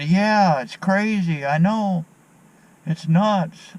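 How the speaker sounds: hammed-up fellow agreeing it's nuts; imitating the other man. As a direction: pitch way up and play him all riled up.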